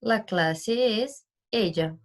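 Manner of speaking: La clase es ella, drawn out slowly; slow teaching emphasis; slow explanation. Shown as a demonstration. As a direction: stretch the phrase out for students. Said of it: "o verbo haber".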